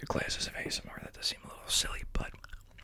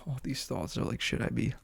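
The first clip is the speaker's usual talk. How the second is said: ASMR whisper. Real, not acted. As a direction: whisper gently into the mic.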